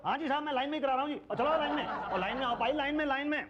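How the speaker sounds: high, officious queue-marshalling call. Acted. Man ordering strangers into the queue, calling out.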